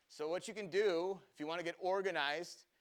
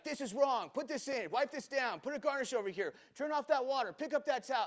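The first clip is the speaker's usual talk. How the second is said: higher, louder rapid-fire mock commands; barking orders; 9 semitones higher, 5 dB louder than usual. Owner bursting into the kitchen, loud mock orders. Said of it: "And he's like".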